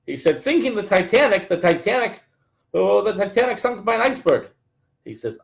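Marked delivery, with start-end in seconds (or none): 0.4-4.5 high, incredulous questioning; baffled disbelief. Retold or imitated. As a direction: sound like the accusation is absurd. Joke, man baffled by accusation.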